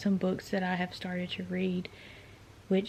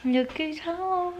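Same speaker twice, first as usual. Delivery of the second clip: slow, high, bright greeting; drawn-out happy welcome home; welcoming someone home; 10 semitones higher, much slower than usual. Real, not acted. Husband Shane arrives home.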